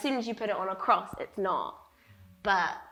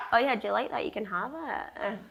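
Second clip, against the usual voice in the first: light mock Scottish accent, friendly offer; jokey Scottish voice, lightly done; 3 semitones higher than usual. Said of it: "That's my Scottish accent".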